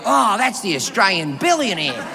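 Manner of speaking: hint of a wildlife presenter; Steve Irwin. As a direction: lightly imitate an Australian naturalist spotting a creature. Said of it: "I'd become like Steve Irwin".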